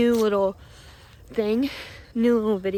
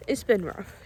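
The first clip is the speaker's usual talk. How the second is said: voice breaking; 5 semitones higher, 7 dB quieter than usual. Real, not acted. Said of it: "I'm emotional because".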